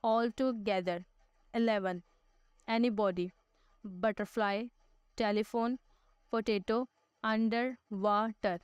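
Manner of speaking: each word broken into syllables with small pauses; split into syllables. Shown as a demonstration. Teacher to class, sounding out syllables. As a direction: chop each word into its parts. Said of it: "ऐसे हम लफ्ज़ों को half half करके बोलते हैं".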